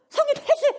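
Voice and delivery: very high, forceful cry for help; urgent plea. Shown as a demonstration. Preacher showing the right way to pray, urgent high plea. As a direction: beg actively with a burst of pitch. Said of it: "이래야 되는데".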